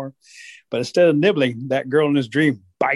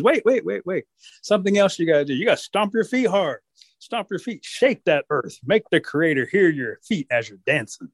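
bossy Rabbit; 4 semitones higher than usual. Acted. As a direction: teach them like a trickster. Rabbit instructs wolves.

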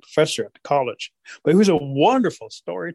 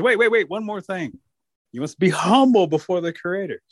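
higher, slow instructing voice; bossy Rabbit; 3 semitones higher than usual. Acted. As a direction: teach them like a trickster.

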